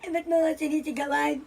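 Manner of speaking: acted tearful child; hurt, close to crying. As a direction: whimper at being told off. Child scolded by older brother.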